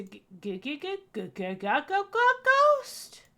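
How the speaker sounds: stuttering in mock fright, then a high loud burst on ghost; scared stammer. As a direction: trip over the word, then squeal it out. Stammering before saying ghost.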